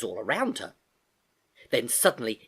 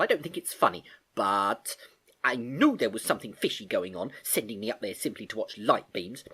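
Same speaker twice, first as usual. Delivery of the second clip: accusing. Acted.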